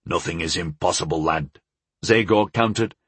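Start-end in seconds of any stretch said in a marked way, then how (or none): 0.1-1.6 smiling voice. A narrator's reading. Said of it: "a smile in his voice".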